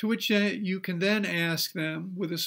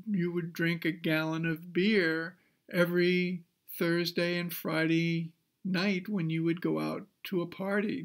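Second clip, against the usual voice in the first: Columbo impression. Counselor to drinking student, a light Columbo puzzlement. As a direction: play a hint of the confused TV detective. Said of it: "in my best impersonation of Columbo".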